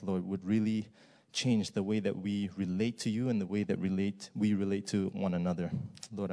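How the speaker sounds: low, even praying voice; prayer. Real, not acted. Preacher asks God to speak truth through him, prayer.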